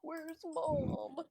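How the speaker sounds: cat voice. Retold or imitated. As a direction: voice the kitty, slow and pleading.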